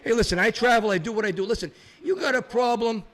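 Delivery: cocky promo voice; wrestling promo. Acted. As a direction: sell yourself like a heel. Wrestling persona self-promo.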